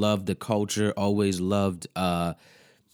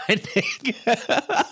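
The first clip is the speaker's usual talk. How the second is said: laughing; slower than usual. Real, not acted. Cracking up at the joke.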